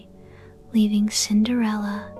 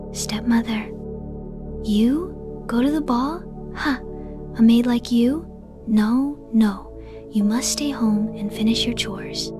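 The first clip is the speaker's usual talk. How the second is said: cold. Acted. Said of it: "her stepmother's voice turned cold".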